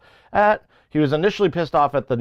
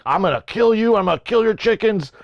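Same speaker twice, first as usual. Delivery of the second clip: mock threat; 7 semitones higher than usual. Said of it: "He was like".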